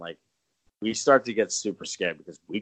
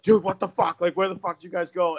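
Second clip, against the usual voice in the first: mock panicked; 8 semitones higher than usual. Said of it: "I'm like".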